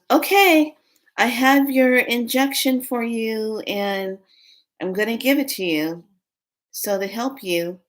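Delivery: high, singsong nurse voice; put-on nurse patter, starting loud and high; dream nurse. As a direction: chirp it slowly like an imitated nurse. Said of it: "this nurse walks in".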